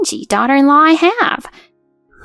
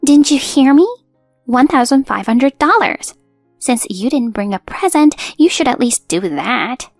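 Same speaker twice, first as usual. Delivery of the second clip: higher, louder start, easing off; impatient demand; 3 semitones higher, 4 dB louder than usual. Acted. Mother-in-law demands money from daughter-in-law, impatiently. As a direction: press the demand as a mildly angry mother-in-law.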